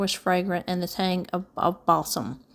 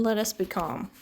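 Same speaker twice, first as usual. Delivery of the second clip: quiet, settled reassurance; calm; 6 dB quieter than usual. A narrator's reading. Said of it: "added Uncle Benjamin".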